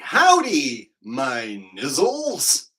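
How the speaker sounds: drawn-out hollered hello, swooping in pitch; hearty mock greeting. Man walking up to a bunch of guys, hollered greeting. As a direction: call it out big, stretching the words.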